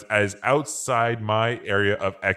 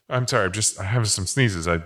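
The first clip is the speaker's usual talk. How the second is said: ordinary talk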